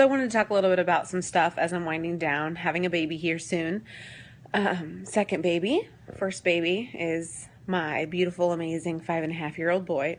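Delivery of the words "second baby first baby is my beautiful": normal talking voice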